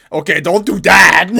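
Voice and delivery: exasperated outburst; alarmed shout. Real, not acted. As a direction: shout it in disbelief at the screen. Shouting at a character on screen.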